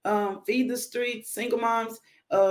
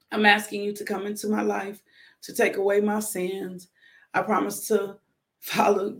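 guided prayer. Acted. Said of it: "I want you to repeat after me".

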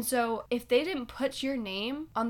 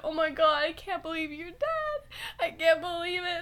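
higher-pitched mock distress; imitated crying; 6 semitones higher than usual. Sister mourning her sibling in a retold prank, mock crying. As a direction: imitate a sister's tearful disbelief. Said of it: "She starts crying".

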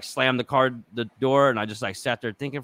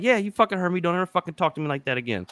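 mock angry warning; 5 semitones higher, faster than usual. Retold repeat warning.

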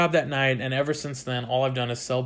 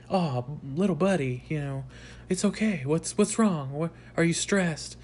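fake nice guy; 3 semitones higher, 4 dB quieter than usual. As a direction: imitate him turning falsely sweet. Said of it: "becomes this, like, nice guy".

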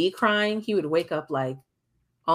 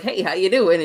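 chipper mock greeting; 3 semitones higher, 7 dB louder than usual. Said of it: "was he all chipper and well rested".

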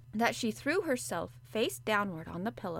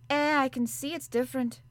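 sympathetic; 5 semitones higher, 5 dB louder than usual. A narrator's reading. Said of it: "she answered almost sympathetically".

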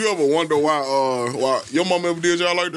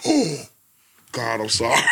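laughing mock apology; 3 semitones lower than usual. Retells apologising for cussing in church.

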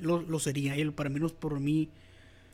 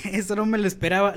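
laughing; 2 semitones higher, 4 dB louder than usual. Real, not acted. Surprised by the question.

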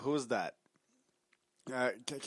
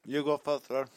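talking through a mouthful; words round a bite of candy; mouth full. Real, not acted. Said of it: "Say it with a mouthful of Twix".

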